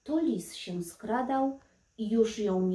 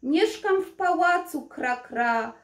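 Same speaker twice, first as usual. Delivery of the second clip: plaintive croak; 5 semitones higher, 3 dB louder than usual. Acted. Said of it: "żałośnie zakrakała Kaprysia".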